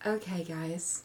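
eerie soft whisper. Trying out a soft-spoken voice for a character with the group: creepy low whisper. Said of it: "Somehow that's even creepier".

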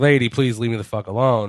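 ordinary delivery

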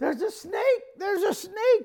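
mock screaming cry, very high-pitched. Retelling how the sister-in-law called about a snake: imitating someone screaming.

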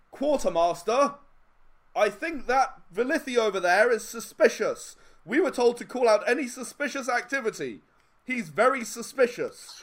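very high-pitched, loud calling-out voice. Game master voices one of the guys calling to the quartermaster, in a loud voice. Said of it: "walk up in a loud voice and go".

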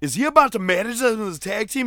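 mock, high, excited yelling. Watching a match among the people nearby: retelling a yelled question. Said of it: "and I even out loud yelled".

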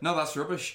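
acted blunt assertive tone. Retelling how a mother answers rule disputes: imitating an assertive mother. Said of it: "how assertive your mother is in her response".

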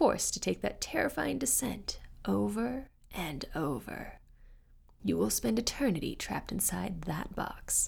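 thick, rough, grating, raspy voice ground out. The Devil speaks to Carol, who died in a car accident, thick and raspy. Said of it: "Oh, I have many names. This one, that one. But I've always loved the one..." / A thick, raspy voice, like the sound of glass on a chalkboard".

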